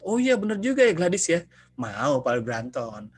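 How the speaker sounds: won over all at once; sudden agreement. Retold or imitated. Customer agrees to buy insurance.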